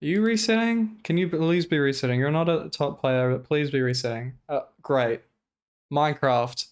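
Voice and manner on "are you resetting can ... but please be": pleading. Real, not acted. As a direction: plead with the runner on screen. Streamer begging runner to reset.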